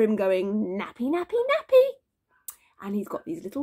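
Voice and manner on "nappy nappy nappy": climbing higher with each word; sing-song chant rising to a high squeal; playful chasing call. A narrator's reading. Dad runs after baby, high playful calling.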